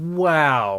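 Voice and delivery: put-on sarcastic delivery of wow. Imitating a parent at kids' soccer reacting to a ref's mistake, retelling a sarcastic wow. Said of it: "like a sarcastic, like".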